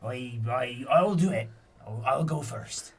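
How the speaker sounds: panicked pleading. Acted. Frightened pirate begs Regina.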